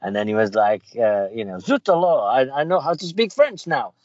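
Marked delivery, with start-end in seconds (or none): 1.6-3.9 high cartoon kid voice; Bart. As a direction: marvel in a put-on high-pitched voice. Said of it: "Remember when Bart went to".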